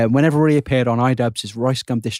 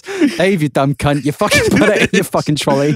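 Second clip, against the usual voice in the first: mock cashier scolding; 3 semitones higher, 3 dB louder than usual. Cashier Jill scolds Dave, retold.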